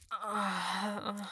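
long, loud effortful groan. Acted. Speaker to partner in intimate scene, loud groan. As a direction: let out a drawn-out groan.

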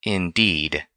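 understated bitter agreement; restrained, a trace of sourness; slight bitterness. A narrator's reading. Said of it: "with a slight trace of bitterness".

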